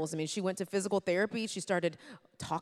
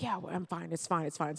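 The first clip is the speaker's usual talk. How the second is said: acting tough; 4 dB quieter than usual. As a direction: brush it off as if unbothered. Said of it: "trying to act so tough".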